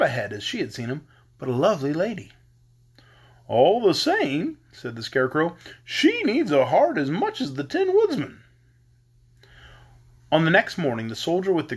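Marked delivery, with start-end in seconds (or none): 3.5-8.4 a hint of a wistful straw man; gently higher Scarecrow voice. Scarecrow speaks to friends.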